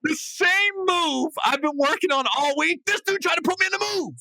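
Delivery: high voice, talking through laughter; laughing. Real, not acted. Storyteller still laughing about the wrestling match. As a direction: keep laughing as you tell it.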